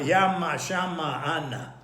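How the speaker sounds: yama, shama, anna each stressed on the opening syllable; stress on first syllable. Shown as a demonstration. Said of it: "was placed on the first syllable".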